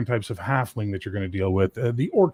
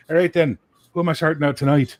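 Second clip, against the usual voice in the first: cockney halfling; 6 semitones higher, 5 dB louder, faster than usual. Retold or imitated. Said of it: "he's like".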